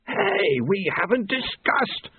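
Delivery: high, slowing protest; high indignant interruption; objecting Famine. A narrator's reading. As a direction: cut in to object.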